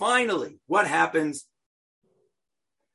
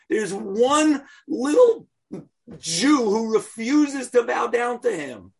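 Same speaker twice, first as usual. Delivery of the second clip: slow, raised and rising into a shout on Jew; Haman's fury voiced in the telling; indignant; 4 semitones higher, slower than usual. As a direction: spit out Haman's outrage at one little Jew. Narrating Haman's outrage at Mordechai.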